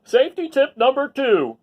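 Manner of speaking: officer's safety tip. Acted. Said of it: "said Officer Buckle".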